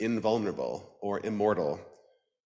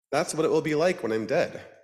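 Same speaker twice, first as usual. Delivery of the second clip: wistful duck voice; 6 semitones higher, 4 dB louder than usual. Acted. Duck thinking aloud.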